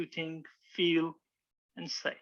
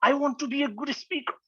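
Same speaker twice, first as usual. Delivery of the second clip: higher pitched, eager determination; determined; 9 semitones higher than usual. Shown as a demonstration. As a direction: say it like a resolved new speaker, fired up. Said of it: "like you want to say".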